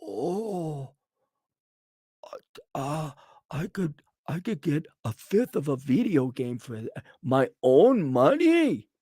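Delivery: hammed-up soft fake sobbing; mock crying. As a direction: whimper like a pouting kid.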